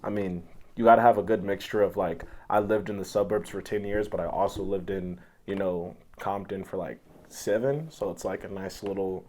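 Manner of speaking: low-pitched, softened take on an Obama-like voice. Pretend. Explaining to his co-hosts how one gets that voice, light Obama voice. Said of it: "how you get to that voice".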